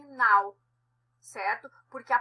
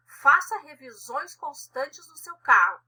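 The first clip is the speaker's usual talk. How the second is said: commanding order; 6 dB louder than usual. Shown as a demonstration. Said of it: "eu estou mandando".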